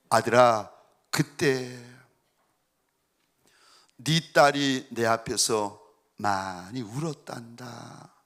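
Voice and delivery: low, slow, tender divine voice; voice of God. Retold or imitated. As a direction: speak slowly as a gentle God. God's voice speaking to father. (아빠에게 말씀하시는 하나님, 낮고 느린 다정한 목소리)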